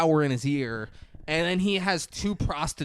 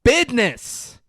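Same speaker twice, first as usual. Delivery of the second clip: mock hooker voice; 8 semitones higher than usual. Hooker scolding him at booth.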